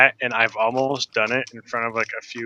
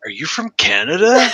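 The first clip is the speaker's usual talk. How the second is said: high quizzical question; 8 semitones higher, 6 dB louder than usual. Retold or imitated.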